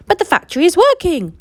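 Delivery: high, loud excited shout; shouting crowd. Acted. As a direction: shout it to the whole street. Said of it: "the people shouted".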